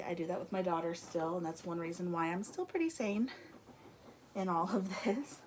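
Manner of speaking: slightly winded talking; breathless after moving around; out of breath. Real, not acted. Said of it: "I'm a little out of breath".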